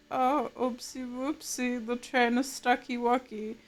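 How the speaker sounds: put-on cutesy baby talk. Streamer quoting the train meme, lightly cutesy. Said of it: "the meme picture that's like".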